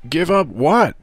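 high-pitched pained question, mildly groaned. A narrator's reading. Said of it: "groaned Tom".

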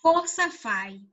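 "Cosa fai" despacio, sílaba por sílaba; slow Italian model. Shown as a demonstration. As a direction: dilo lento para que lo entiendan. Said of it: "¿qué haces?". (traducción al italiano dicha despacio)

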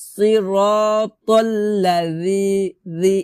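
slow সিরাতাল্লাযি with a "thee" ending; thin dh in drawn-out recitation; soft dhal model. Shown as a demonstration. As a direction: stretch it, tongue on upper teeth for রি. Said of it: "এভাবে".

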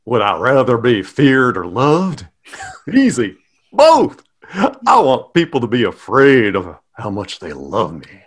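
playful Hallmark card reading; Hallmark card character. Pretend. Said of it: "like, a Hallmark card".

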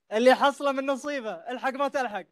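laughing through the words; playful tease, breaking into laughter. Real, not acted. Teasing audience about hidden cards. (يضحك وهو يتكلم)

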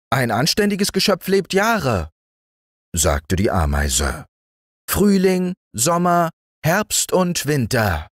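high, prim ant voice. A narrator's reading. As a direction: lay down the law as the ant. Ant lecturing.

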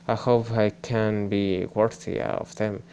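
slowly voicing a game character's lines; slow reading of game lines. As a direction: read each line out carefully for the stream. Reads English game dialogue aloud.

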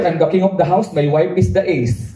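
slow grand line, deflated ending; slow mock pronouncement. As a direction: declaim slowly, then let it fall flat. Repeating father's advice, undercut.

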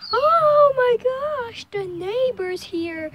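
panicked pet put into words; voicing the cat. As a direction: play the cat as an overdramatic diva. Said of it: "She's like".

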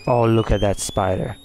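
normal talking voice

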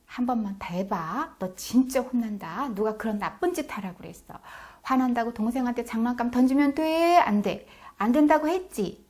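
acted fed-up parent; harsh parental scolding. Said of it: "이렇게 모진 소리를 하면요".

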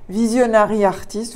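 a light mock English accent on Visionary Artist; French speaker trying an English accent, half in jest. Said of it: "vous admirez mon accent anglais".

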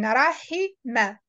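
"Rahima" drawn out slowly, clear middle "hi"; teacher's slow, careful "ra-hi-ma"; corrective model. Shown as a demonstration. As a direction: stretch "Rahima" to show the middle sound. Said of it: "you need to correct the middle sound".

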